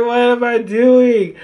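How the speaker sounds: slow, high comic wail; playful high-pitched self-reproach; mock panicked wail. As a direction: draw it out in hammed-up dismay. Retold panic at own crying.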